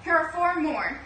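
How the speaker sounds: loud, high happy call. Acted. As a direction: call back to Pongo with good news. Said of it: "called Purdy".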